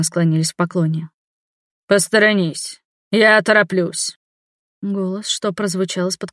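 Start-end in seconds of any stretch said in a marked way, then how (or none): 1.9-4.2 imperial voice. Acted. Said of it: "настолько напоминал императорский".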